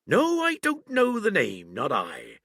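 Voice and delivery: high, loud musing aloud; aloud again. A narrator's reading. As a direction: speak up for the room to hear. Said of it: "he ran on again aloud".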